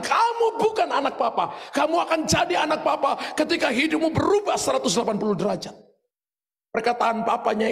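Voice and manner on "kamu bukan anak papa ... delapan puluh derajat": retold father's verdict, pitched high and firm; stern father. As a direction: speak the father's stern ultimatum, raised. (ayah yang tegas, suara dinaikkan)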